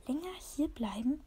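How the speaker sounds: a voiceless hiss of disbelief; hissed whisper. Acted. The bristling cat hisses at the dog.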